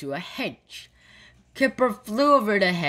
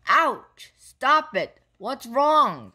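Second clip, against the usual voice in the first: higher, mildly raised protest; crying out; 7 semitones higher, 4 dB louder, slower than usual. A narrator's reading. Kipper, grabbed and taken upstairs, crying out. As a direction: read it as short startled cries. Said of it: "cried Kipper".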